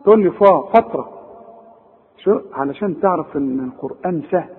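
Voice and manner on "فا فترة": فترة opening on a dark, backed "fa"; wrongly heavy Fa. Shown as a demonstration. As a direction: thicken the vowel in فا. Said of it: "كل دي غلط".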